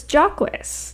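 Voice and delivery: "Jacques" said as a French name, not "Jakes"; assumed French pronunciation. Shown as a demonstration. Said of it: "running gag about me and pronunciation".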